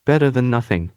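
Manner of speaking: muffled, whining through candy; muffled whine. Acted. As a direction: whine it through a full mouth. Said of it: "In a muffled voice he whined".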